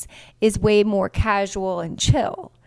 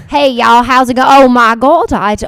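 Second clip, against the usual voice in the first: mock interview voice; 4 semitones higher, 9 dB louder, slower than usual. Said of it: "You're like".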